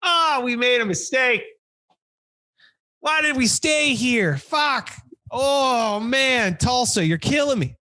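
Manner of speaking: hammed-up dismay; regretful lament. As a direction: groan it out as a comic lament. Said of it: "regretting everything".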